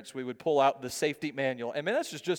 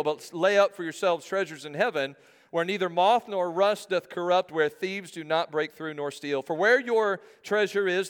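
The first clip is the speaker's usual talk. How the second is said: measured pulpit reading; scripture reading. Acted. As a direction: read the verses out to a congregation. Reads scripture aloud to congregation.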